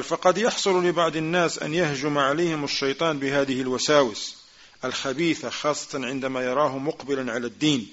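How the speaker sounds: quick, running recitation of the Arabic text; rapid text reading. Acted. Teacher reads the Shaykh's words to students, rapid recitation. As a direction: rattle through the quoted passage fast.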